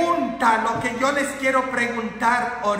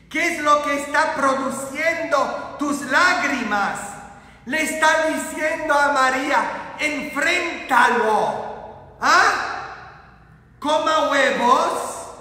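raised, higher preacher's challenge; forceful preaching; 5 semitones higher, 5 dB louder than usual. Acted. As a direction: press the congregation with emphatic questions.

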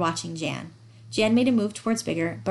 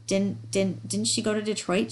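"Didn't, didn't" stumbled before the question; stammering. Acted. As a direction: catch on the first word, then push out the question. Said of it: "Jan stammered".

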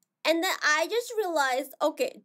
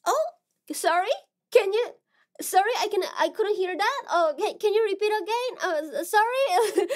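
lightly acted, higher-pitched apologetic asking; higher, hesitant mock request to repeat; imitated listeners; 5 semitones higher, 3 dB louder than usual. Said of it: "So many people asking to me".

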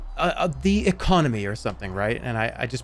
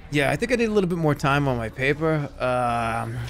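lightly voiced Boston guy making excuses; casual Boston slacker excuse; put-on Boston accent. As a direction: stall the teacher in a mock Boston accent. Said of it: "why they would have that accent".

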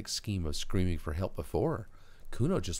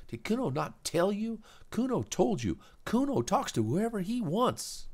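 put-on high, louder, slow defiant kid; Kuno's defiant kid voice; 4 dB louder, slower than usual. Kuno defying the girl, high and slow. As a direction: dig in and defy her, slowly.

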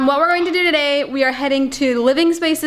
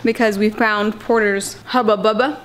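chewing gum. Real, not acted. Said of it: "Sorry, I'm chewing gum".

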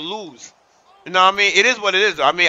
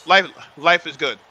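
hyped up; 4 semitones higher, 3 dB louder than usual. Real, not acted. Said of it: "hyping chat".

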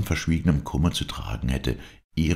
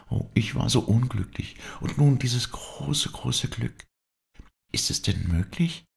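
put-on higher young woman, joyful and overwhelmed; a girl pouring out her confession, pitched higher; higher tremulous young woman confessing; Dorette's voice; 6 semitones higher than usual.

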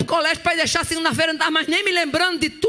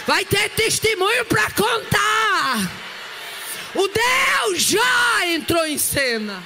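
fiery preaching; 7 semitones higher, much slower than usual. Acted. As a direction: preach it out with holy fervour. Preaching at full force, tongues.

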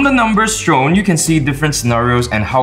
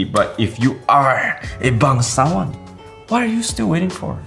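Singlish; 3 semitones higher than usual. Acted. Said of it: "bangsawan like me".

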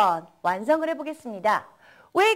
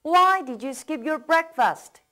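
slow, even drill pace; slow model reading; 2 semitones higher, much slower than usual. Shown as a demonstration. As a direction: say it slowly, leave room to repeat. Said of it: "따라 읽어보겠습니다".

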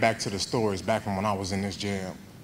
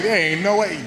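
disbelief; 9 semitones higher, 6 dB louder than usual. Retold or imitated. Told to rewax the car.

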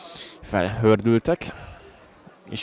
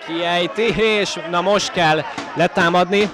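rising, shouting play-by-play, much higher; excited sports commentary; 9 semitones higher, 4 dB louder than usual. Real, not acted. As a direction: yell the chance as it unfolds. Live commentary of a near-goal chance.

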